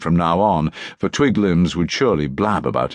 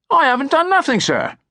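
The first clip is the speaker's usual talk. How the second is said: very high, louder frightened squeal; high panicked street boy protest; squawking urchin; 4 dB louder than usual. A narrator's reading. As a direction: squeal it like a cornered bully boy. Bully urchin caught, squawking.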